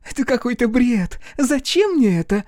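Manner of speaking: high-pitched outraged protest; indignant flare-up. A narrator's reading. Chloe denies having a motive to the detective, indignant flare-up. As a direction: protest hotly, voice shooting up. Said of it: "взвилась она".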